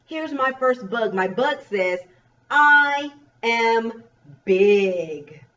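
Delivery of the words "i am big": lightly voiced bug, slow and emphatic; drawn-out, punched story quote; bug character. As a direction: read it as a big bug announcing itself. Reads the bug's line aloud.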